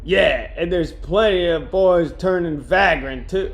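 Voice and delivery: slow, lightly put-on smoker voice; same smoker woman voice. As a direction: retort slowly in a hint of smoker woman. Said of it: "that's the same voice".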